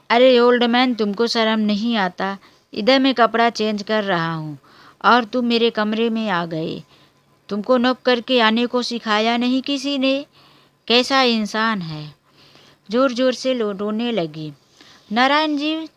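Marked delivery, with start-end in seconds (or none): 0.1-12.0 put-on loud scolding outburst, hammered at the old man; angry shouting. Granddaughter yelling at grandfather for entering her room, loud and angry. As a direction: yell at him for barging into the room. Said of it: "उसने ज़ोर-ज़ोर से चिल्लाना शुरू".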